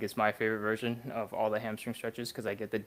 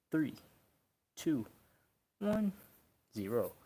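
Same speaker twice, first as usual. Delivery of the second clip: strained countdown; 3 semitones higher than usual. Real, not acted. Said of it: "I'm out of breath".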